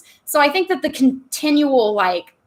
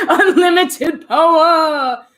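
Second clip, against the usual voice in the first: evil emperor voice; 5 semitones higher, 5 dB louder, much slower than usual. Pretend. Quoting Palpatine for fun.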